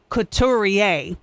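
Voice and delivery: couturier said slowly, koo-too-ree-ay, each syllable clear; careful couturier. Shown as a demonstration. Director showing the cast how to say couturier, slow and careful. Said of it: "had a little trouble pronouncing".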